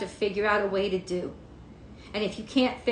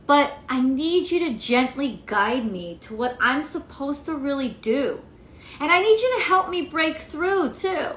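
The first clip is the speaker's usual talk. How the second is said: sincere prayer; 3 semitones higher than usual. Pretend. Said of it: "seriously say".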